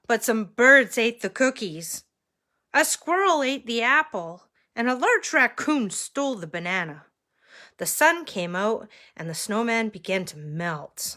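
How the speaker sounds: lively read-aloud, leaning on key words; animated storytime reading; story narration. A narrator's reading. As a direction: tell it to listening children. Reads picture book to children.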